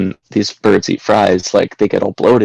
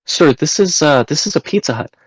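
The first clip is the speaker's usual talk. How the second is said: higher-pitched imitation of a puzzled worker; confused employee; 7 semitones higher than usual. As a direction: mimic her, polite and high.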